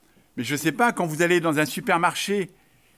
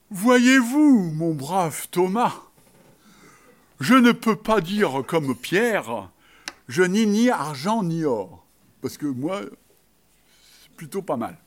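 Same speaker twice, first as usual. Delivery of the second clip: proud boast; slower than usual. Retold or imitated. Pope showing off his treasures to Thomas, proud slow boast. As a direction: savour the riches, drawing out each word. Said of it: "avec beaucoup de, de fierté".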